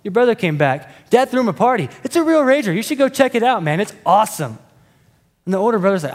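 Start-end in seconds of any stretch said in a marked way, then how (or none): 0.0-4.6 breezy, careless servant, pitched higher; nonchalant servant. Retold or imitated. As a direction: toss it off like it's nothing. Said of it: "the servant's just nonchalant".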